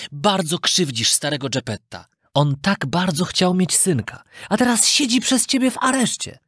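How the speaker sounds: lightly voiced scolding, rising to a sharp question; stern talking cricket. Cricket scolds the puppet boy, lightly voiced and stern. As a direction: lecture the boy on his father. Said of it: "powiedział świerszcz".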